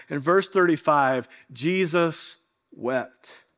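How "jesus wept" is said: slow, hushed reading of "Jesus wept"; solemn, slow and soft. Acted. Pastor reading the shortest verse to the congregation, slow and hushed. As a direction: let each word sink in with grief.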